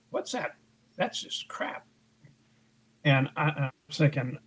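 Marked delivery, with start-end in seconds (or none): 0.1-1.8 sarcastic reading. Retold or imitated. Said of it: "very sarcastically reading".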